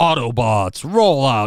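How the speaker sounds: robot leader voice with rallying battle-cry delivery. Joking about taking on a role, speaker does the line in Optimus Prime voice. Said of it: "Did I do that again? Just do the voice?".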